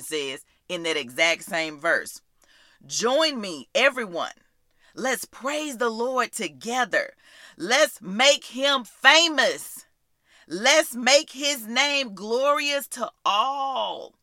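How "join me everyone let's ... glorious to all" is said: slow, rallying praise reading; proclaimed scripture. Acted. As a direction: proclaim it slowly, calling everyone to join in. Proclaiming the praise verse aloud.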